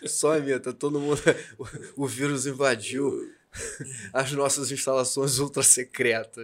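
hoarse, croaky duck-like voice; raspy allergy-hoarse voice. Real, not acted. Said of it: "essa voz de pato rouco".

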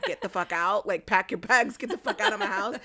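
mock angry parent. Parent kicking out their kid, mock furious yell. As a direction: throw the kid out in mock rage. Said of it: "and you're just like".

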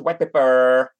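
white paper with a drawn-out, rolled R; lightly mock accent on white paper; imitated accent. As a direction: stretch the R in paper, mimicking his accent. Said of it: "he says".

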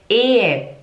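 Ehe with a long first E and an E at the end; teaching Ehe, both E's sounded. Shown as a demonstration. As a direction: draw out the E in Ehe. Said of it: "É um E longo e no final é um E".

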